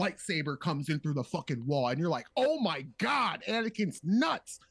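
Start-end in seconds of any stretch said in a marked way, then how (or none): 2.3-4.6 mock shocked gasp. Reacting to lightsaber through wall.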